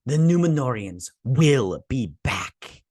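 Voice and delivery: slow mock proclamation; imitating her. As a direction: declare it slowly, word by word. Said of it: "she's like".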